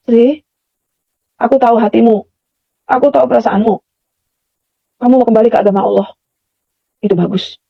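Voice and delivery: imitating a gentle mysterious voice, unhurried with pauses; softly reassure, leaving space between phrases. Mysterious voice calls Sri back to faith, gently. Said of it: "pelan, suaranya pelan, kayak dicampur-campur angin".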